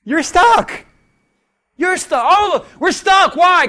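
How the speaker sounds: loud, high preaching cry; preaching at full force; preaching shout. Real, not acted. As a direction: drive it home to the congregation. Preaching climax.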